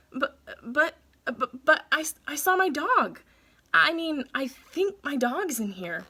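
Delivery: stammering nervously. Acted. Boy stammering to the bulldog bouncers, rattled. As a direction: panicky stammer, voice climbing.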